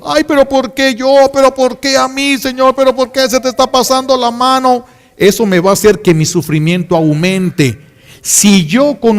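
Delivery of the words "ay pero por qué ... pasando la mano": higher, whiny mock lament; lightly acted self-pitying complaint; rebellious complaining. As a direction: voice someone protesting their suffering. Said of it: "y me revelo al sufrimiento".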